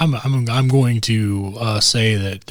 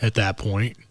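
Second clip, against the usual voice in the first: excited; 6 semitones higher, 6 dB louder than usual. Real, not acted. Excited laughing enthusiasm.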